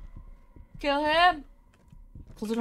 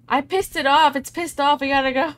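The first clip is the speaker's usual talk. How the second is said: 1 urgent; 9 dB louder, faster than usual. Real, not acted.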